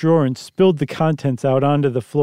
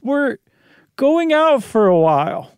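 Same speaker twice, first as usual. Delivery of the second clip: anxious wife voice; 10 semitones higher than usual. Acted. Janet calling to the kids.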